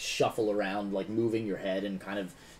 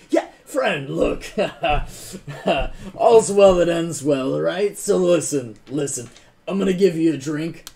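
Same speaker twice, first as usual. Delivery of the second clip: loud, higher, laughing menace; booming fake cheer; 5 semitones higher, 10 dB louder than usual. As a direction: oversell the friendliness to a captive. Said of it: "looks at you and is like".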